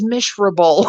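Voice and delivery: "Miserable" with a sh sound, like "Mishrable"; mispronounced miserable. Retold or imitated. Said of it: "She says miserable".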